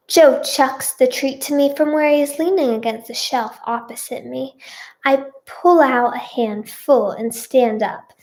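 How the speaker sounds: measured, clearly projected storytelling; story narration. A narrator's reading. Reader tells her own story to listeners, narrating. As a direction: read it out like an audiobook. Back to character, reading.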